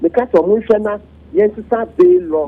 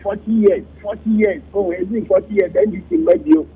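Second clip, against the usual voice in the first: mocking the crowd; 3 semitones higher than usual. Commentator mimicking gloating party supporters, mock boastful. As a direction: ham up the gloating chant, lightly. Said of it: "na amanfo sɛ".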